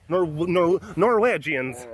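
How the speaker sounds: "Norwegians" with a put-on Norwegian vowel, "Nor-WEDGE-ians"; mock Norwegian accent. Shown as a demonstration. Joking about dad's side of the family, mock Norwegian accent. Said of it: "what sort of accent this is".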